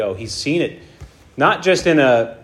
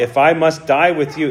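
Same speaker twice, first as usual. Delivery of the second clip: louder emphatic vow, read aloud; forceful, emphatic reading of a pledge; 3 semitones higher, 5 dB louder than usual. A narrator's reading. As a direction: read it as an insistent declaration. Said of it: "But he said emphatically".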